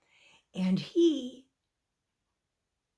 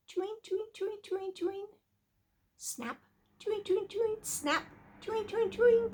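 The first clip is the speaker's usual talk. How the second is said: high, sing-song repetition; busy chewing; 8 semitones higher, faster than usual. A narrator's reading. Storyteller as the little mouse keeps chewing, busy chant.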